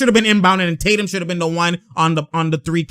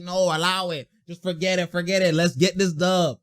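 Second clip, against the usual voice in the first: imitated resignation; 6 dB quieter than usual. Imitating a player letting the call go, soft and dismissive. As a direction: wave it off softly, under the breath. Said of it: "You can see a box like".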